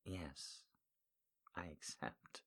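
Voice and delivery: very soft, low, whispered; 1 hushed whisper. Acted. Heroine whispering her yes to the pilot, hushed. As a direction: murmur it like a secret.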